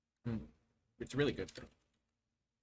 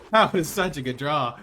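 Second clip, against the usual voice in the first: suddenly loud, gleeful exclamation; loud elation; 10 dB louder than usual. Real, not acted. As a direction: burst out celebrating the draw. Loud repeat celebrating the draw.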